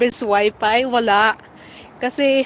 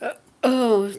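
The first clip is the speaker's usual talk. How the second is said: whispering. Real, not acted. Whisper in the cold.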